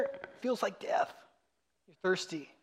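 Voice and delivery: slow, breathy whisper; hushed whisper. Real, not acted. Pastor whispering to the congregation, hushed and slow. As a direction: drop to a whisper, slowly.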